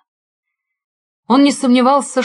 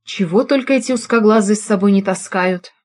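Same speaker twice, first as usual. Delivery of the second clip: usual speaking voice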